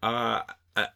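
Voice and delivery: usual speaking voice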